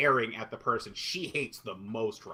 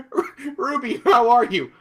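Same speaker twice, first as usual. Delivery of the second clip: mocked line reading; 6 semitones higher, 8 dB louder, slower than usual. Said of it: "one terrible fucking line".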